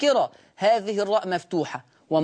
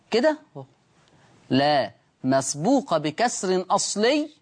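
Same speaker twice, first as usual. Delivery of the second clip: slow dictation; 2 semitones lower, slower than usual. Shown as a demonstration. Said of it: "يا ريت نتابع وندون".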